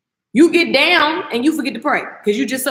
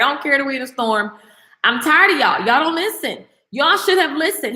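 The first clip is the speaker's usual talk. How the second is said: bold, lightly acted scolding; Paul. Fed-up prisoner scolds the crew in the storm, bold retold rebuke. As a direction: imitate someone fed up, mildly telling them off. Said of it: "Paul is just bold, y'all. Paul didn't care".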